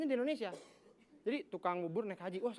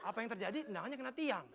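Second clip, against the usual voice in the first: commentator self-answer; 7 dB quieter than usual. Acted. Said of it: "Dia nanya sendiri, jawab sendiri".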